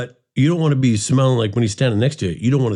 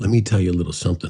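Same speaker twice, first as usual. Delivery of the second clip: confiding, conspiratorial tone, much lower; 4 semitones lower than usual. Demonstrating how to make people listen harder, conspiratorial. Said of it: "lean in with a little conspiratorial".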